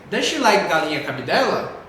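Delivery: "Does she like galinha cabidela" as a yes-no question lifting upward; rising question intonation. Shown as a demonstration. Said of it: "a entonação vai lá pra cima". ("Does she like galinha cabidela" com entonação pra cima)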